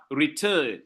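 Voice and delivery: "return" weighted on its second syllable; stress on second syllable. Shown as a demonstration. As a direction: lean on the "turn" in "return". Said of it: "la deuxième syllabe est accentuée".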